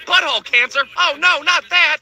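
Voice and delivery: high, slowed mock dread; mock panic. Patient to doctor, hammed-up horrified high whine. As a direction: whimper it out in fake horror.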